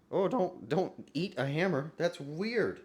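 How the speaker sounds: high-pitched fussing at a cat; playful high pet-talk reproach; scolding a pet. Real, not acted.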